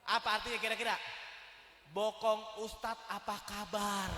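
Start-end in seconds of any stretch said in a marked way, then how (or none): 1.9-4.1 mock literal reading.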